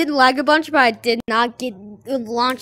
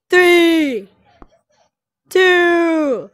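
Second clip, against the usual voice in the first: building countdown into a yell; countdown shout; 4 semitones higher, 6 dB louder, much slower than usual. Real, not acted. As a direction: count down and yell as you jump. Countdown before jumping off.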